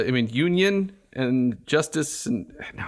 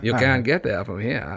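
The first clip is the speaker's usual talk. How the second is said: a light Maine accent; 2 semitones lower than usual. Shown as a demonstration. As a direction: drop into a Down East Maine accent. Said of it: "Your Mainer accent?".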